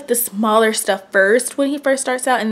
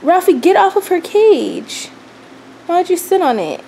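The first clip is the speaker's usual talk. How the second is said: scolding pet; 7 semitones higher, 6 dB louder than usual. Real, not acted. Mom scolds Ralphie on the cage, raised voice. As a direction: tell the cat off firmly.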